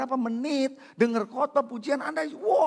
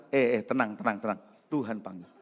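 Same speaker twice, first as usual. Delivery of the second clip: soothing reassurance; 10 semitones lower, 3 dB quieter than usual. Retold or imitated. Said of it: "malah sekarang bilang".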